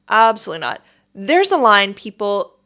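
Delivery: loud, stern telling-off; retold scolding of queue jumpers; firm scolding. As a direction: put the line-cutters in their place. Scolding line-cutters at airport.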